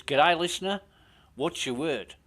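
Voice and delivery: mock Australian radio voice; Australian accent. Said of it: "my Australian accent's shit".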